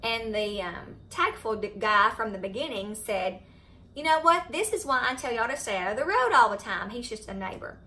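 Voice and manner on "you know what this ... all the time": retold scolding. Neighbor scolding the children, retold.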